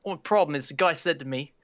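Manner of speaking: put-on Aussie accent slipping into English; badly faked Australian storytelling; put-on Australian accent drifting British; attempted Australian accent. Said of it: "going a little bit into an English".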